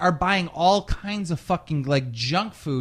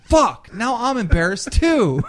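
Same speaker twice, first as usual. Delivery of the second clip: louder, higher groan of shame; loud mock embarrassment; 6 semitones higher, 7 dB louder than usual. Telling friend how everyone in Walmart stared, loud embarrassed. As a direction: cry out mortified for laughs. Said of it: "and I'm like".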